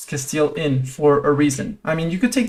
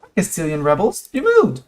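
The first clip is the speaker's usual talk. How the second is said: excited; 4 semitones higher than usual. Real, not acted. Greets rebels gleefully.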